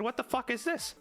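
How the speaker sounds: high, incredulous mock outrage; a comic shriek at orange-striped trim; disgusted disbelief. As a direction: recoil at the ugly saddle. Disgusted by the weird horse.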